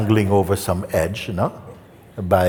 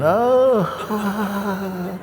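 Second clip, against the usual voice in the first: high, wavering cry of strain; mock dangling wail; 13 semitones higher than usual. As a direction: wail like you are dangling by a hand. Dangling man in story.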